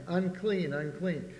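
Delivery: a leper at the back door warning people off, a mild cry. Retold or imitated. Cry it out as a warning. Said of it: "and he's crying".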